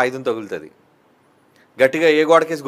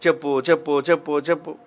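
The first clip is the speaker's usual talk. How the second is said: coaxing Delilah. Retold or imitated. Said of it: "అడుగుతుంది".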